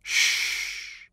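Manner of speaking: wet, gurgling insistence. A narrator's reading. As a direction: press the words through a wet throat. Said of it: "Henniker insisted in a wet voice".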